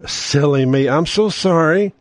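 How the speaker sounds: high, sugary fake apology; mock insurer apology. Insurer fakes sorry to a cheated customer, high and sugary. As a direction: play the insurer's phony sorry. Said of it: "That's what they do".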